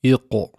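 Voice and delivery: IQ with a small echoing release after the q; bounced qaf. Shown as a demonstration. Teacher previewing tajweed qalqala, bounced IQ. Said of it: "that's how we do it later on in tajweed".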